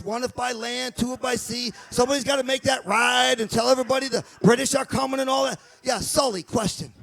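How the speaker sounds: put-on Boston accent bossing Sully and Paulie; Boston townie accent. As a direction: run the meeting like a Boston townie. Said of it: "this is what I picture it sound like".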